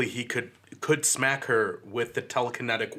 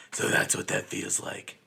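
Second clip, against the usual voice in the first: whispered Batman quote; 3 semitones lower, 3 dB quieter than usual. Retold or imitated. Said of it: "When he's talking to her".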